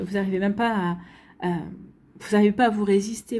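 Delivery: holding back hiccups mid-sentence. Real, not acted. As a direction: hiccups jolting the words. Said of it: "j'ai le hoquet".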